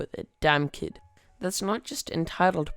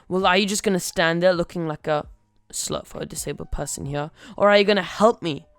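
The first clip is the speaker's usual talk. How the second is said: indignant demand; 4 dB louder than usual. Acted. Mother berates a worker for standing there, indignant. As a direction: demand help, getting loud at the end.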